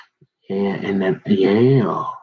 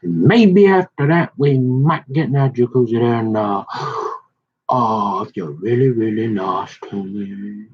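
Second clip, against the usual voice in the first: creepy come-on. Retold or imitated. Creepy come-on from retold man.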